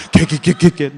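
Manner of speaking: rapid-fire stammer on one syllable; imitated stuttered cursing. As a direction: mimic a friend stuck on a swear word. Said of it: "말 더듬는데도 욕 잘해요". (욕을 더듬는 친구 흉내)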